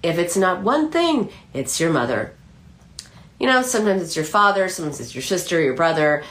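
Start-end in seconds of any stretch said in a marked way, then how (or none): 0.0-2.3 lightly put-on Yiddish accent; a hint of a Yiddish grandmother's accent. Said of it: "my terrible rendition of a Yiddish accent".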